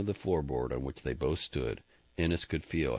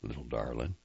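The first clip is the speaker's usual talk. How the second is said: tender endearment; 4 semitones lower, 4 dB quieter than usual. Acted. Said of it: "said what he said to his horses and daughters".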